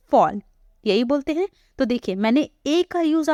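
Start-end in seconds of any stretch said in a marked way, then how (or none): 0.1-0.4 फॉल with a clear open "aw" vowel; model pronunciation. Shown as a demonstration. Teacher showing the vowel, careful model word. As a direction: sound out फॉल after a short lead-in. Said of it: "हम बोलते हैं".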